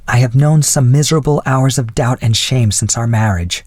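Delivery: lightly voiced wife making her confession; confessing wife. Wife confessing doubt and shame to husband, lightly voiced.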